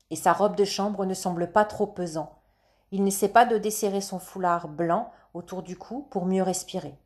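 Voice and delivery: ordinary delivery, nothing marked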